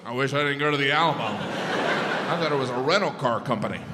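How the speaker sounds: regretful defender. Retold or imitated. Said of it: "their last thought was".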